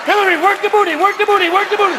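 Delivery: high, loud sassy cheering; mock cheer. Imagined crowd cheering Hillary at the inauguration, high sassy chant. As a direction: egg her on to dance.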